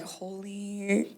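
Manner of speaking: slow, drawn-out amazed gasp of words; awestruck. Retold or imitated. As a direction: let it out slowly, stunned by his body. She ogles his bare chest.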